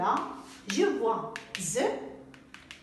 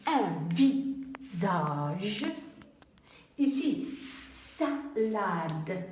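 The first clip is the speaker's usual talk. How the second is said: slow reading; 3 semitones lower, much slower than usual. Shown as a demonstration. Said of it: "On a".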